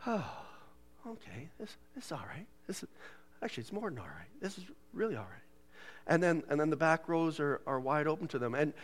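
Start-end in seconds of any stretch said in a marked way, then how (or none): 0.1-5.4 soft, near-whispered self-reassurance; relieved newcomer. Retold or imitated. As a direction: murmur it with a relieved sigh. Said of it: "they're already going".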